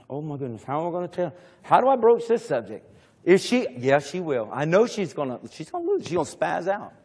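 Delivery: soft, worried mumbling to himself; a nervous king talking himself out of going home; fretting Ahab. Acted. Ahab frets before facing Jezebel.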